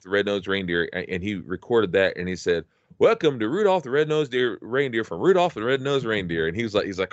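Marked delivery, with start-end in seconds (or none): 3.0-6.5 imitating Dad's amateur TV intro; lightly put-on announcer, pitched up at the start; would-be professional announcer. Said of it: "he wanted to be professional, you know".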